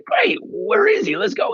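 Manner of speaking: hyped mock greeting; eager. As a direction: jump up with eagerness. Eager reply at game.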